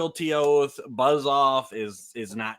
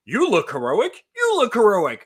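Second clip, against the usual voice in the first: high-pitched, louder mock enthusiasm; gushing instant-friend mockery; 9 semitones higher, 5 dB louder than usual. Host mocks two heroes bonding instantly, gushing and high. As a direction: gush like overeager new best friends.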